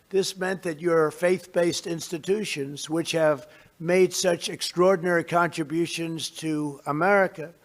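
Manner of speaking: measured, formal address to a crowd; podium speech. Real, not acted. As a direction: deliver it like prepared remarks.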